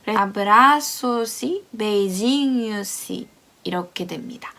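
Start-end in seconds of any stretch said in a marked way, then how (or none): 0.2-3.3 "abraço-se, beijinho-se" with the y sounded as a faint i glued to the word before; weak linked y. Shown as a demonstration. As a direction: slur "y" into "abraço" and "beijinho" so it nearly vanishes. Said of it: "앞에 단어하고 붙어가지고 굉장히 약하게 발음이".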